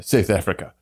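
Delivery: lightly imitated South African accent. Shown as a demonstration. American echoing how South Africans say it, South African accent. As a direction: tighten the vowels like a South African.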